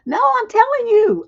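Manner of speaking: real high-pitched, forceful emphasis; emphatic insistence. Real, not acted. Host insisting to her audience.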